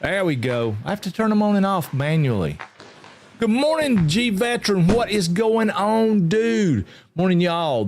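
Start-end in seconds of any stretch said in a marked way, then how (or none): 3.4-7.9 excited greeting. Real, not acted.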